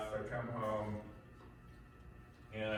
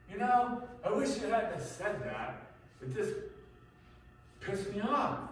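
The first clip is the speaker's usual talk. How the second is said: whiny victim; 11 semitones higher, 3 dB louder than usual. Retold or imitated. Abuser playing victim to wife.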